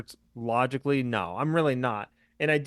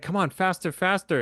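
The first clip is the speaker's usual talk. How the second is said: urgent hurry; 6 semitones higher than usual. Retold or imitated. Urging quote from movie.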